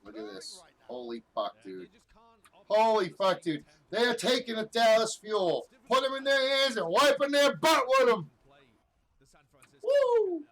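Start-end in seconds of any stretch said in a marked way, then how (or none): 2.7-10.4 high, loud amazed shouting; hyped. Real, not acted. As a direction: yell in disbelief at the stomp. Reacting to a crushing teamfight.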